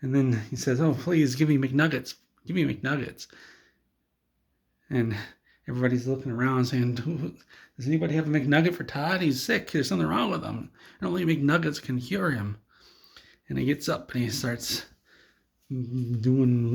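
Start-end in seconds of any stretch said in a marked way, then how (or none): 0.8-3.3 slightly higher begging voice; acted pleading. Todd begs for McNuggets. 7.8-12.6 higher, urgent appeal; acted concern. Onlookers urgently seek a cure.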